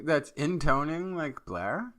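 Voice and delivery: slow uptalk ending on "Blair", pitch rising like a question. Real, not acted. Co-host joking about a deepfake colleague, Valley Girl question. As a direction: stretch "Blair" upward as if asking. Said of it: "I did it like a Valley Girl question".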